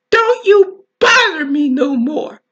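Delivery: mock-bold warning to the doctor; mildly angry. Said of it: "I said very angrily".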